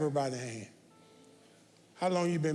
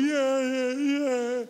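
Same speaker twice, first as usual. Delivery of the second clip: louder, higher mimicked cheering; drawn-out mock "yeah"s, raised in volume; mock egging-on; 4 semitones higher, 5 dB louder, much slower than usual. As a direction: imitate an overeager congregant cheering the speaker on. Mimics crowd egging speaker on.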